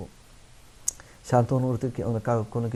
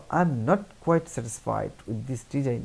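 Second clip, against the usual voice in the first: polite; much slower than usual. Shown as a demonstration. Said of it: "আমরা এভাবে বলবো".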